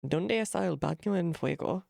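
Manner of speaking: put-on clumsy gringo Spanish accent on ¿Dónde está el baño en fuego?; mock a northerner mangling Spanish. Mocking how northerners pronounce Spanish, gringo accent. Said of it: "trying to pronounce Spanish sounds like".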